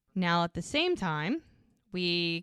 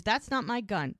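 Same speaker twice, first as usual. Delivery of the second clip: higher-pitched protest of innocence; retold denial; 4 semitones higher than usual. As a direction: deny it quickly, voicing the accused man. Retold denial by accused man.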